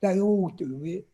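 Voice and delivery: be the small polite elf in the crowded lift; Dobby the house elf, squeaky and polite; little elf voice. Retold or imitated. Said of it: "And he said".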